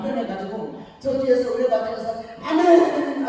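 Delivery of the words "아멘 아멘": mock fervent amen. Husband mocks her fervent amens.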